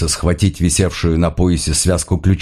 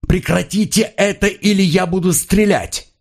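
much higher, strained threat to shoot; desperate high yell; 10 semitones higher than usual. A narrator's reading. Paul threatens to shoot his partner: desperate high yell. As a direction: scream it out as a last warning. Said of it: "заорал".

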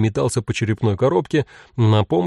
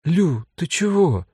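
put-on little girl voice; 7 semitones higher, slower than usual. A narrator's reading. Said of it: "удивилась Элька".

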